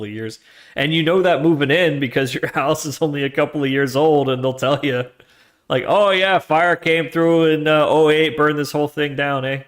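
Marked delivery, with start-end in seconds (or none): 5.9-9.6 put-on breezy California accent, higher and louder; mock California local accent, casual about disaster. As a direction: toss it off like a laid-back Californian local. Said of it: "That's my California accent".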